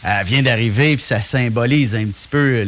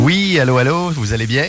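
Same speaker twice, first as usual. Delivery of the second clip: crackly phone line; faster than usual. Real, not acted. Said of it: "j'entends un petit grichage".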